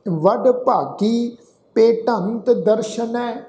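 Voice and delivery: slow, drawn-out sacred recitation; scripture recitation. Shown as a demonstration. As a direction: recite slowly, holding the long vowels.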